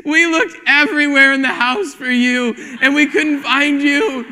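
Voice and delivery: put-on high, slow tearful little girl. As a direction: sound like a frightened small daughter. Child voiced in story.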